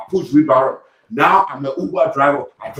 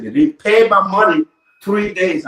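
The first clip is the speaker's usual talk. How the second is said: high-pitched indignant protest; retold complaint; 5 semitones higher, 4 dB louder than usual. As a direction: complain to the boss with pitch lifted.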